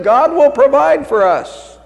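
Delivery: serene fiancé. Acted. Fiancé's serene catchphrase in joke.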